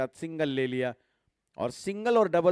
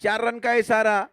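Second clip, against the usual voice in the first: excited cricket commentary; 4 semitones higher than usual. Real, not acted. Four hit in live commentary.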